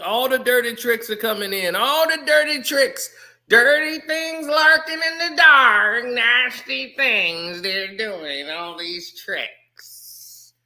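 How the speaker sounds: whisper-like menace about things lurking in the dark; spooky storyteller. Acted. Spooky warning about dirty tricks.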